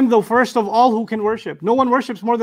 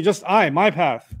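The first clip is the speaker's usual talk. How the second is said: slow, I and my pressed firmly; slow, stressed I and my; slower than usual. Shown as a demonstration. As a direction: spell out just I, my path deliberately. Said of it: "It says".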